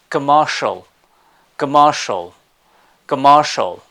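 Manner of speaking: "Commercial" said the British way, no R; British pronunciation. Shown as a demonstration. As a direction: say "Commercial" without the R sound. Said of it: "It has to be a bit different".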